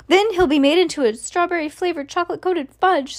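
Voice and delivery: high, contained storybook scream; Missus Gloop screaming. A narrator's reading. Missus Gloop fearing for her son, high contained scream. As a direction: wail it up high without full volume. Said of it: "screamed Missus Gloop".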